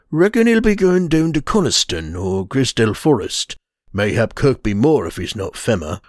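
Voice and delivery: put-on a grumbling old Geordie huntsman; rugged Geordie dialect. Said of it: "rugged Geordie dialect".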